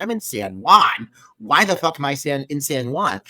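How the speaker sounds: baffled echo of a place name, slowed at first; mock bafflement. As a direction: play the lost, exasperated viewer. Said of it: "And you're like".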